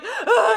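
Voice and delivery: high, loud half-laughing cry; laughing sob. Retold or imitated. Actress breaking down, laughing sob. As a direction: let out a comic wail. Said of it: "Yeah, I was like".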